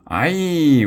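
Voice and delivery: sudden high, loud yelp of fright; a boy cries out as he falls; frightened cry. Acted. Wiglaf cries out falling from the window. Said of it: "Wiglaf cried".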